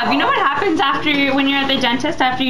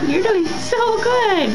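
soothing praise; 5 semitones higher, slower than usual. Real, not acted. Praising child at dentist.

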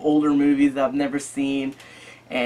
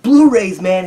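higher and louder, Blu-rays blurted out; mock exasperated shout; 4 semitones higher, 5 dB louder, slower than usual. To the store clerk, a mock exasperated shout. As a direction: blurt it like he's slow to get it. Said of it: "I was like".

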